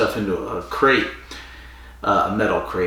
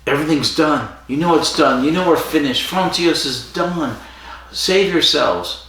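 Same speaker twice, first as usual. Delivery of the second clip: a touch higher, warning of the end; doomsaying orderly; 5 semitones higher than usual. Retold or imitated. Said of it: "he turns around and he goes".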